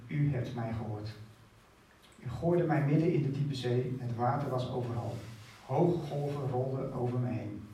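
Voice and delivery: solemn Bible reading of a prayer; scripture reading. Acted. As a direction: read Jona's prayer out with weight. Reads Jona's prayer aloud.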